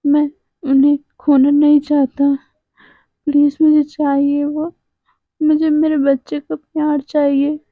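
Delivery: put-on mild sobbing, begging for his children; sobbing plea. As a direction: plead through light, understated sobs. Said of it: "सिसकते हुए बोलता है".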